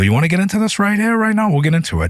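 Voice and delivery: furious comeback shouted in his face; angry yelling. Retold or imitated. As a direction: square up and yell the threat right back. Heated quarrel with Schumer.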